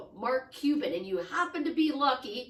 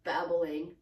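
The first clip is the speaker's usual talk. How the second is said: lower, fast inner grumble; annoyed inner thought; 6 semitones lower than usual. Retold or imitated. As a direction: mutter it as a trapped, bored listener. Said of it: "And he's thinking".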